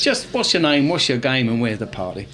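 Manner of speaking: a second go at the cheesy pickup line. Shown as a demonstration. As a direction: deliver it like a market trader's line. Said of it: "give it a try".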